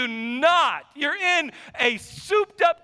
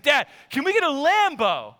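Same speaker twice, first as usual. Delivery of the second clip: put-on eager kid; 2 semitones higher than usual. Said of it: "He's like".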